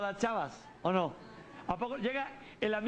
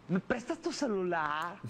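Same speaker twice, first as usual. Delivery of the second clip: put-on girl voice; 3 semitones lower, slower than usual. Girl asking for phone.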